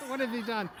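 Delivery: exasperated wife gasping at the news; alarmed wife. Retold or imitated. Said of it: "She's like".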